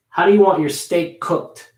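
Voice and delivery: "steak cooked" with a light K joining the two words; linked K demo; smaller K link. Shown as a demonstration. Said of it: "I would pronounce the K smaller".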